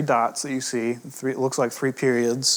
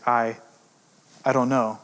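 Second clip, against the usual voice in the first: demo stutter. Shown as a demonstration. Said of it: "when somebody is stuttering".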